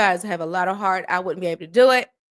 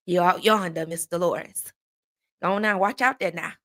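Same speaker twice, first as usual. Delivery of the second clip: mimicked Southern country uncle; playful Southern uncle impression; country uncle's Southern accent; 3 semitones lower than usual. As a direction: put on a down-home Southern accent. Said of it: "I got an uncle that talk like that".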